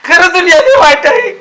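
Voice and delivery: weepy lament with लय stretched and rising; drunken sobbing. Acted. Drunk man sobs to his friend that the world is cruel. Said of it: "तू गप रडू नको".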